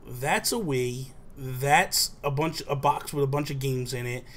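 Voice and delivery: slow, measured retold guesses; drawn-out, matter-of-fact reveal; deliberate guessing. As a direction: call out each present slowly, one by one. Smugly guessing presents one by one.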